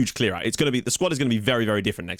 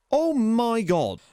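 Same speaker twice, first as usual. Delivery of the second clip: stunned gasp; 12 semitones higher, much slower than usual. Real, not acted. Shocked at rival's stats.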